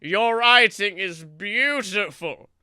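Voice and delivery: a touch of the god mentor; lightly voiced wise teacher. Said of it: "Momoa was just like".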